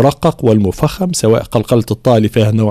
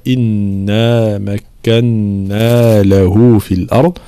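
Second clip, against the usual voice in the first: recitation; 2 semitones lower, much slower than usual. Shown as a demonstration. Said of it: "في قوله تعالى".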